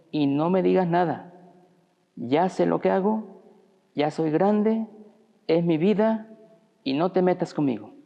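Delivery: a son who came home tipsy tells his dad to back off, defiant and loud; defiant teen outburst. Acted. Drunk son shouting at his waiting father, defiant.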